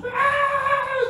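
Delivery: a sudden high yell, like a madman in the night; mock yell. Preacher imitating the possessed boy's midnight yell. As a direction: yell it out as the raving boy.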